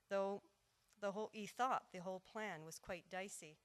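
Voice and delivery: rhythmic storytelling in verse; lilting verse narration with measured pauses; narrative poem recital. Acted. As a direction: tell the tale as a ballad, leaning on the beat.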